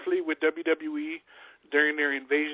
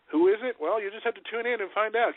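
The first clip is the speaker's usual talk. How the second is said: teasing; 7 semitones higher than usual. Acted. Teasing announcer-style hype.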